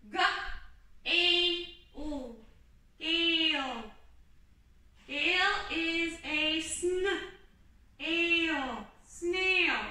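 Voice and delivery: slow, stretched sounding out, blending sn and ale into snail; sounding out slowly. Shown as a demonstration. Teacher showing the kids how to sound out a sentence slowly. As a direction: model decoding a word sound by sound. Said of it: "Let's start".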